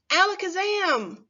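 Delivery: high, playful spell call; cheerful magic word for kids. Pretend. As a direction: cast it like a stage magician. Teacher casts magic E spell.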